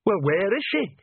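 near wail. Acted. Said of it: "Nanny almost wailed".

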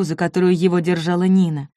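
usual speaking voice

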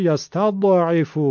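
"یستضعف" with the d released in a small bounce; faulty qalqala bounce. Shown as a demonstration. Teacher showing the mistake, echoing bounced d.

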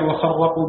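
وخرقوا as "wa-kharraqu", ra held double; doubled ra. Shown as a demonstration. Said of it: "بتشديد الراء". (وخرّقوا بتشديد الراء)

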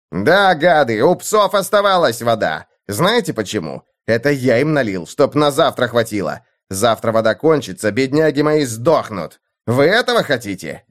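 громкий злой окрик; рявкни на лучников; рык. Acted. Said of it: "рыкнул лучникам". (Мартин рычит на лучников)

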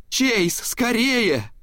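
very high, slow desperate call for help; grandma calls her son Chase to hurry; horrified call. A narrator's reading. Испуганный зов, очень высоко и медленно. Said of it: "в ужасе закричала она".

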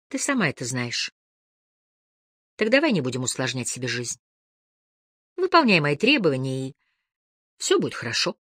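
measured, controlled reasoning with pauses; understated, composed male character's speech; surprisingly calm. A narrator's reading. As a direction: explain it patiently, without raising your voice. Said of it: "удивительно спокойным голосом".

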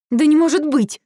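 high, loud cry of disbelief; shocked outburst, voice jumping up. A narrator's reading. Heroine realising the bag is dragon, shocked.

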